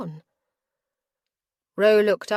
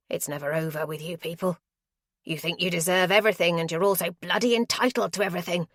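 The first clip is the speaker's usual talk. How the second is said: angry threat. Acted. Lamb threatening Caroline at gunpoint, angry. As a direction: snap the orders.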